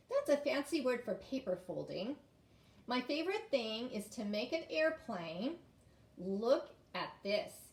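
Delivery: animated storybook reading; reading to children. A narrator's reading. Teacher reads about making paper airplanes, animated storybook voice. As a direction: read it out brightly, drawing out the big finish.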